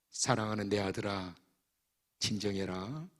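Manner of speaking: calm him like a loving father; God's tender voice. Acted. God calming his anxious son, softly and tenderly.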